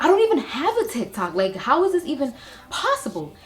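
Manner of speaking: high, loud, quick disbelief; acted incredulity. Vlogger replying to friend about the repost, acted incredulity. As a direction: re-enact baffled amazement, pitch jumping up.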